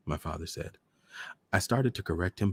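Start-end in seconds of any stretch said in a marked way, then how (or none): none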